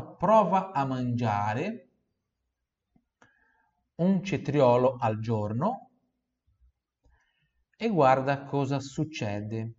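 Prova a mangiare broken into slow chunks; slow model sentence. Shown as a demonstration. Teacher chunks the Italian phrase slowly for repetition. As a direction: pace the phrase out in pieces. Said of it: "Repita em voz alta".

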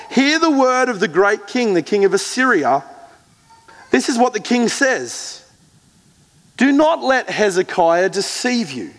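preacher reading scripture aloud, building. Acted. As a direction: proclaim the commander's words with weight. Reads the Assyrian king's words with force.

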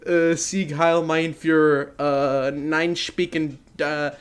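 a hint of Trump, drawn out; Donald Trump impression. Shown as a demonstration. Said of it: "my Donald Trump impression".

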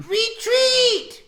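very high, loud battle cry; high-pitched acted shout. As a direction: scream the order to your troops. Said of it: "he shouts again".

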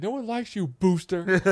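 high mock movie voice; buddy reciting the line. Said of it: "he's like".

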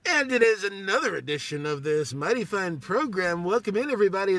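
radio voice. Shown as a demonstration. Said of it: "That is my radio voice".

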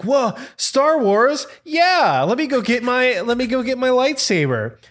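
high-pitched, thrilled outburst; excited kid reaction. Retold or imitated. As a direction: re-enact a kid bursting with excitement. Retells his excited childhood reaction.

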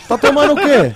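bright high friendly question. Retold or imitated. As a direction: sound suddenly chummy and upbeat. Friendly turn in retold story. (voz amigável e animada)

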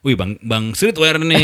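slow mock-admiring tease; drawn-out jokey ribbing of a friend; slowly teasing a stylish friend; playful teasing. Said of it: "Bercanda, bercanda gitu kan".

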